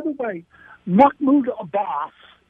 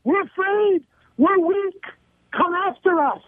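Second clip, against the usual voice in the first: higher, imitating a cowering plea; mock weak plea; 7 semitones higher than usual. Commentator voices Kerry's signal to enemies, mock cowering. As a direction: sneer it as a frightened signal. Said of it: "He sent it to".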